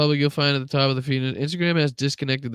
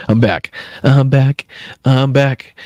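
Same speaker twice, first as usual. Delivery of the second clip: louder, punchy repeated I'm back; loud announcement; 10 dB louder, slower than usual. Real, not acted. Streamer telling chat the sound is fixed, loud. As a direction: call it out so everyone hears. Returning after sound cut out.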